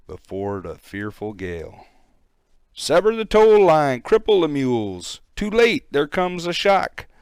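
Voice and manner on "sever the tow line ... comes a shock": high, loud desperate shouts; panicked orders. Acted. Crew yelling orders as the boat runs aground, panicked. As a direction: yell the orders as the boat strikes.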